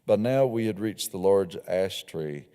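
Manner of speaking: measured, unhurried reading of a novel scene; story narration. A narrator's reading. Author reading her novel scene to listeners, calm storytelling narration. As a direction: read the passage aloud to the audience, evenly.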